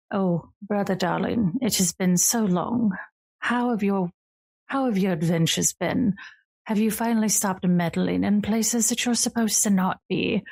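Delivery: lightly voiced regal older sister, teasing; a hint of a grand lady purring at her brother. Sister greeting her brother on the porch, lightly regal and teasing.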